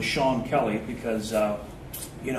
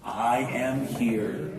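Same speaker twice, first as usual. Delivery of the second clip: slow spoken; much slower than usual. Shown as a demonstration. Teacher setting up the chant, spoken slowly. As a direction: speak each word apart, gently. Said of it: "we start with".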